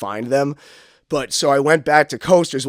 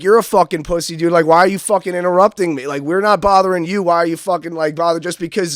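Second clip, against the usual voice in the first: higher, louder angry rant; getting mean; 5 semitones higher, 6 dB louder than usual. Retold or imitated. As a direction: tell him off, heated. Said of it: "I started getting, like, mean".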